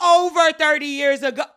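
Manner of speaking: high, loud crying-tone echo; incredulous cry. Real, not acted. Host echoing the thirty years, high mock crying. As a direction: moan it in mock despair.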